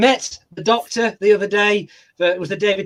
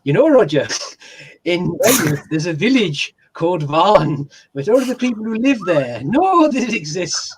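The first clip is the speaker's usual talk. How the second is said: bad Welsh accent; slower than usual. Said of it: "it's a terrible Welsh accent".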